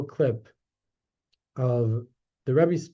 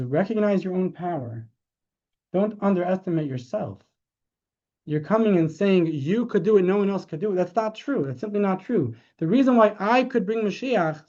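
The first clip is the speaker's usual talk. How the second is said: rising, insistent exhortation, higher; passionate urging; 4 semitones higher than usual. Retold or imitated. Rebbe urging the crowd to recognize their power, fervent and raised. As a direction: press it on them with growing fervour.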